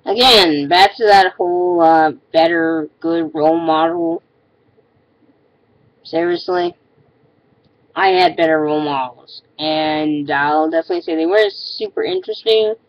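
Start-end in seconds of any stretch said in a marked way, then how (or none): 6.0-6.8 high disbelieving seriously; incredulous. Real, not acted. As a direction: ask it in utter disbelief. Incredulous at commenter.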